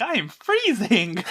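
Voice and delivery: slow, whiny freezing complaint; mock shivering complaint. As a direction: drag it out like you're frozen. Character complaining of cold.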